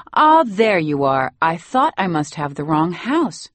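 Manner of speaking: put-on dry, superior old woman; haughty grandmother. A hint of the imperious grandmother arriving at her son's house.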